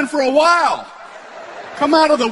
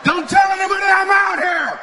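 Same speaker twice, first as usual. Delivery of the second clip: hick moonshiner; 8 semitones higher than usual. Retold or imitated. Voicing the hiding moonshiner.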